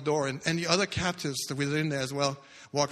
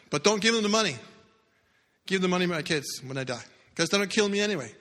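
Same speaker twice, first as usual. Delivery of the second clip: urgent warning; 4 semitones higher, 3 dB louder, faster than usual. Retold or imitated. Secretly warning boss on phone.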